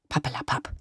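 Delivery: mild snippy dismissal. A narrator's reading. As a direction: brush her off tartly. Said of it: "gab sie schnippisch zurück".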